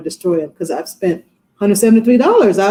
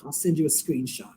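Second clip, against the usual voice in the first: quiet reply; 4 semitones lower, 11 dB quieter than usual. Retold or imitated. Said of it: "She goes".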